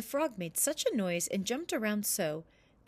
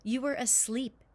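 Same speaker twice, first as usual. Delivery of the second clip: mild triumph; 4 semitones higher than usual. Acted.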